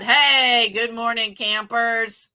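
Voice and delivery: loud, cheery wake-up call to campers; booming hello like a summer camp leader; camp counselor cheer. Pretend. Greeting viewers as camp counselor.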